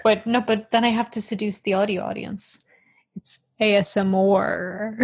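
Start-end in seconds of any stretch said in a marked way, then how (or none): 3.1-5.0 mock ASMR. Teasing audio listeners with ASMR.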